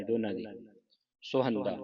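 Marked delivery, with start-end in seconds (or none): 1.2-1.8 "ਸੁਹੰਦਾ" with first vowel between u and o. Shown as a demonstration. Teacher demonstrates both vowel signs, "ਸੁਹੰਦਾ" with in-between first vowel. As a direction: blend u and o in "ਸੁਹੰਦਾ". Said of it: "ਔਂਕੜ ਦੀ ਆਵਾਜ਼ ਕੱਢਣੀ".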